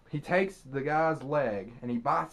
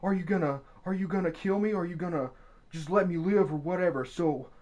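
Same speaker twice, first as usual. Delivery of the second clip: quoting the victim; 3 semitones higher than usual. Retold or imitated. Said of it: "these are the guy's own words".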